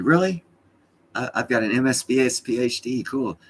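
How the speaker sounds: high, loud delighted brag; proud and impressed. Retold or imitated. Grandson proudly answering his Nana, high and excited. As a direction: show off the degrees with glee.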